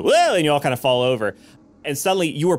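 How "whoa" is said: high, loud "whoa" of being thrown; mock startled whoa. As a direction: yelp as if jolted off balance. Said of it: "You just go".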